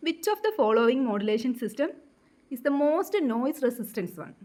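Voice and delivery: reads the question out very slowly, word by word; slow question reading. Acted. Teacher reading exam question aloud to students, very slow dictation.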